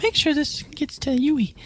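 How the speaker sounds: high, hushed giant character voice.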